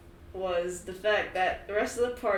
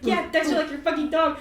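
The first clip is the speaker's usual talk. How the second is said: higher, louder mock reply; imitating Hayden; 8 semitones higher, 8 dB louder than usual. Mocking Hayden answering about the dog name, a bit higher. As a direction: lightly voice the boyfriend answering. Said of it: "He's like".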